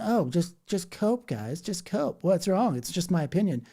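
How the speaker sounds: a mild, mocking imitation of a smug commenter; lightly voiced smug dismissal, pitch up; mock calm commenter. Mocking a calm commenter who says horrible things, lightly voiced. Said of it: "in a calm tone of voice".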